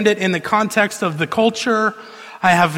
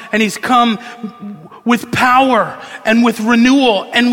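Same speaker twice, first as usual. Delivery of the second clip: impassioned preaching. Real, not acted. Preacher proclaims sin and renewal to congregation, impassioned preaching. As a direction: press each phrase home, rising to a forceful climax.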